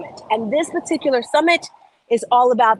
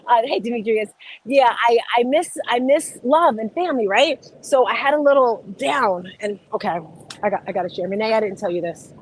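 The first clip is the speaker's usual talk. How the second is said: ordinary delivery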